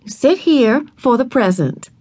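gently seat the new pupil; smiling teacher. A narrator's reading. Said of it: "she said with a smile".

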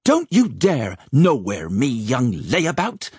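high, drawn-out indignant rebuke; barked scolding. A narrator's reading. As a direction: bark it slowly into the boy's face. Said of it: "barked full into his face".

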